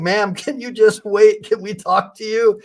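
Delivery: lightly voiced cop chasing her down; mock cop voice. Officers calling after a mother, lightly mimicked. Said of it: "officers after her saying".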